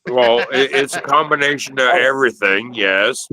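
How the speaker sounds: stumbling over words, tipsy. Real, not acted. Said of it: "I'm so hammered right now".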